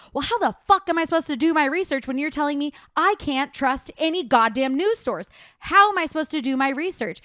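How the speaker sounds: heated rant, pitch up and pushing loud; angry rant. Real, not acted. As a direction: vent it like you're fed up. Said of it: "Rant over".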